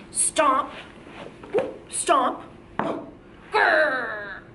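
chanted stomps, then a growl; dinosaur stomp and growl. Shown as a demonstration. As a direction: stomp it out, end in a playful grrr. Teacher models stomps and dinosaur growl.

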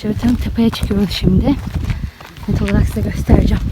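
breathless from the uphill climb; puffing between words; out of breath. Real, not acted. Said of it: "Soluk soluğa kaldım yine".

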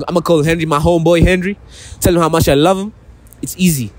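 put-on American country accent. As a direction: talk like a Texas cowboy. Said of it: "adopt an American country accent".

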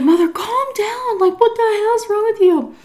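high, exasperated mimicry; acted-out high-pitched scolding; imitated scolding son. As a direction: mimic a son telling his mother off. Son scolding his drunk mother, retold.

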